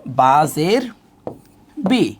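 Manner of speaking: "বা জের বি" recited in parts, ending on ee; zer as i-kar. Shown as a demonstration. Teacher shows learners the zer vowel, reciting "বা জের, বি" with ee. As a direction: spell out "বা জের", pause, then say "বি" with an ee vowel. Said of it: "ইকারের মতো করে হবে".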